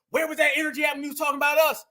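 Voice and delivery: rapid, indignant challenge; fast indignant callout. Real, not acted. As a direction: fire the question fast, calling him out. Host calls out a rapper.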